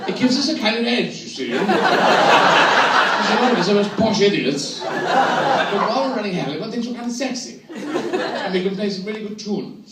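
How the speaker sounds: a touch of a posh idiot; posh Englishman. Acted.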